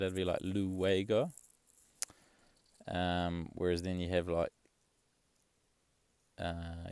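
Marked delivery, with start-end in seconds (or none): 0.4-1.3 LUEGO said slowly as loo-WAY-go; sounded out phonetically. Shown as a demonstration. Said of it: "if I phonetically sound it".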